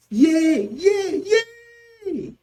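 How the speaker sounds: loud, very high repeated wails; excruciating pain cries. Shown as a demonstration. Teacher demonstrating excruciating pain, loud wailing. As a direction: wail as if in intense pain. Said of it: "When the pain is intense or excruciating".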